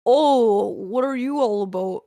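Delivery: mock Ontario Canadian, long round "Oh"; lightly teasing Ontario accent. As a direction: imitate an eastern Canadian accent. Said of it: "Ontario and those places, that's where everyone's like".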